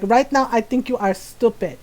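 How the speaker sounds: put-on accented Filipino mom telling off her son; imitating scolding mom. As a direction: mimic a mother's stern, deliberate threat. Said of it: "I love how Lola says stupid".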